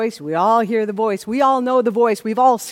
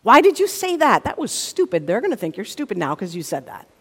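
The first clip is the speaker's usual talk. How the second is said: nagging commentary that runs on quicker at the end; condemning self-talk. Acted. Inner critic berating someone for what they said, mildly condemning. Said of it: "adds a running commentary of condemnation".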